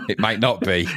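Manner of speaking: said through a laugh. Pretend. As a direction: chuckle while saying it. First take, laughing aloud.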